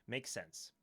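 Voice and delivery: normal talking voice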